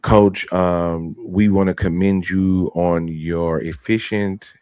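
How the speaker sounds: slow, stiff press reporter; lightly voiced stiff reporter; formal reporter voice. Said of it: "'Cause they had to be like".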